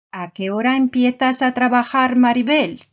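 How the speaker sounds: quick, brighter question, voice up; calling to Maribel. Acted. Teacher acts out asking Maribel her start time. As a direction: ask Maribel lightly, as if across a room.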